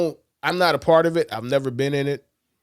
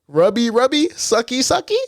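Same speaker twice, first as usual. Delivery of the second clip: higher-pitched mock Japanese accent; imitated terrible Japanese accent; 6 semitones higher, 3 dB louder than usual. Quoting teammates' taunts at an assistant trainer, mock Japanese accent. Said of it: "terrible Japanese accent".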